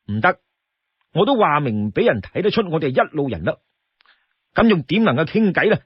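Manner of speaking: lightly voiced firm refusal, brisk; companion refusing. The young companion refuses the brute's plea, firm and brisk. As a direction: shut him down briskly.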